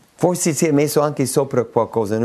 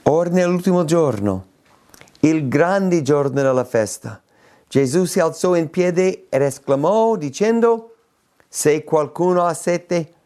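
lettura biblica scandita, con enfasi sulle parole di Gesù; lettura solenne delle Scritture; 4 semitones higher than usual. Acted. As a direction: leggi il versetto come una proclamazione. Legge il versetto biblico. (lettura solenne della Bibbia)

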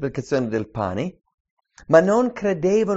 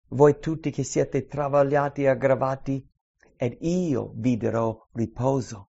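scripture reading. Acted. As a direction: offer rest to the weary. Preacher reads Matthew eleven aloud.

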